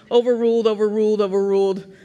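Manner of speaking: curt, repeated courtroom ruling; mock judge. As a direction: rule firmly as a mock judge. Mock judge ruling against child.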